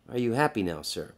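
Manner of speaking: soft, understated mock taunt; a murmured gloat, under the breath; quiet taunt. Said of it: "He would have taunted the guy".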